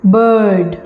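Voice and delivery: bird with long अ, no r sound; elongated a in bird. Shown as a demonstration. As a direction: stretch the अ in bird, drop the र. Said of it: "मैं र को उच्चारित नहीं कर रही हूँ". (bird में अ को लंबा खींचें, र नहीं)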